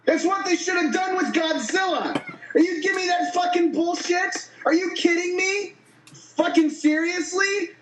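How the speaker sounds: furious shouting rant; angry rant. Real, not acted. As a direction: rage at the movie, full volume. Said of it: "blood pressure pills after that one".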